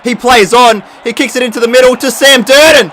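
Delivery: very high, loud scream at the game; full-volume, high-pitched outburst; frantic shouting. Real, not acted. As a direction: yell the play in outrage. Yelling as the play goes wrong.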